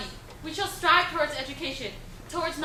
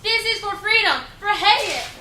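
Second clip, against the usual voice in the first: ringing, defiant shout; defiant cry; 11 semitones higher, 13 dB louder, slower than usual. Acted. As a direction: cry it out as a last stand. Final defiant cry on rooftop.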